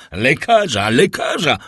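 acted alarmed shout, pitch climbing; urgent cry. A narrator's reading. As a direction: call out urgently for a doctor. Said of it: "zawołał".

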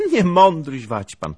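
put-on high, loud indignant girl; quick cry. A narrator's reading. Flustered girl before she darts off, crying out. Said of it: "zawolała prędko Anusia".

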